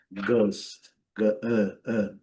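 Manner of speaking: "Gust" and "ah" with a slack, lazy vowel; demonstrating the lazy schwa; lazy schwa sound. Shown as a demonstration. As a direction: say "ah" without moving the face. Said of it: "som preguiçoso".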